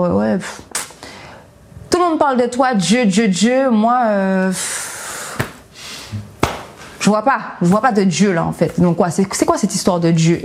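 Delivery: insolence moqueuse, légère; arrogante. Retold or imitated. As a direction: se moquer de Dieu avec dédain. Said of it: "j'étais très arrogante, très insolente". (petit ton arrogant et insolent)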